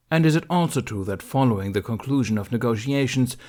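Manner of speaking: a stern council master, formal and pressing; stern Mace Windu. Acted. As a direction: read out the charges like a cold judge. Mace continues the charges.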